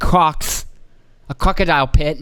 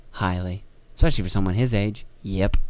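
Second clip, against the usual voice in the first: mock official; 7 semitones lower, 5 dB quieter than usual. Acted exchange, low voice.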